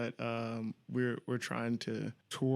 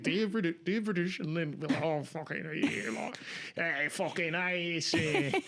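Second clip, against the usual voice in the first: hammed-up drunk Australian accent, higher; 4 semitones higher than usual. Shown as a demonstration. Demoing an Australian accent for a friend. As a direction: play the Australian as a drunk Brit. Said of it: "that's how you do an Australian accent".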